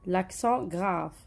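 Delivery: drawn out slowly for the pupils; slow teacher's demonstration; slowly spelled out. Shown as a demonstration. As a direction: stretch each word like a teacher. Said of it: "لي لاكسون تاعو تروح vers la droite".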